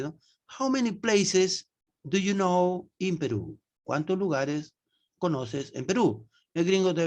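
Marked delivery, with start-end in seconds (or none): 0.6-3.6 slow English question. Retold or imitated. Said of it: "si tú a un gringo le dices".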